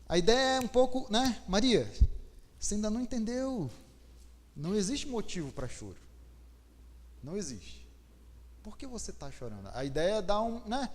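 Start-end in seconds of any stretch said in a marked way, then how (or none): 1.5-9.7 a kind rebuke, fading quieter to the end; gentle reprimand. Acted. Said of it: "Foi uma gentil reprimenda do anjo". (repreensão gentil e suave de anjo)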